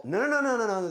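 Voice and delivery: excited protest. Real, not acted. Objecting to a vote mixup.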